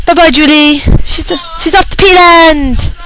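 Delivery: mocking sendoff. Real, not acted. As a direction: wave her off with sarcasm.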